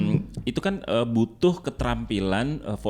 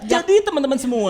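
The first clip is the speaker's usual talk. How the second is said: high, loud camp lilt; effeminate man voice; 12 semitones higher, 6 dB louder than usual. Shown as a demonstration. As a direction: go full camp, much higher. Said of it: "ngomongnya ala bencong".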